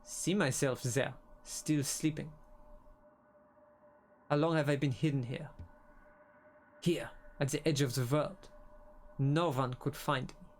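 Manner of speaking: slow, hushed, solemn game-dialogue reading; brooding dialogue voice, drawn out and grave; slow dramatic reading. Acted. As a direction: read it like an ominous prophecy, slowly. Reads the boss's lines dramatically.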